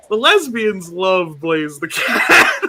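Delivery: laughing. Real, not acted. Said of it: "said slowly, laughing".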